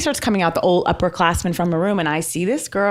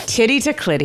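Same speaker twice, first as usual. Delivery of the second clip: laughing; 3 semitones higher than usual. Real, not acted. Punchline said through laughs.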